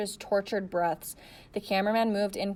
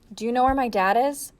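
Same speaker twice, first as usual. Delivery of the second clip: raised voice; 4 semitones higher, 7 dB louder than usual. A narrator's reading. Asking over helicopter.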